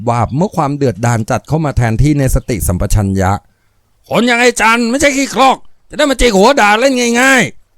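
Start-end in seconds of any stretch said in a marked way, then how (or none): 3.7-7.8 high, slow, seething growl; through gritted teeth. Acted. Furious foreman seething at the boss's daughter through gritted teeth. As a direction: grit your teeth and spit it at her. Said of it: "กัดฟันใส่หล่อนด้วยท่าทางที่เต็มไปด้วยความกักขระ".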